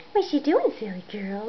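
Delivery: sing-song question to a kitten. Real, not acted. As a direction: raise the pitch, cooing at the cat. High baby talk to cat.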